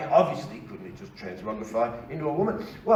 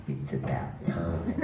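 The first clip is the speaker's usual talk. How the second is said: sly double meaning; 11 semitones lower, 6 dB quieter, much slower than usual. Retold or imitated. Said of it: "that's not what it means".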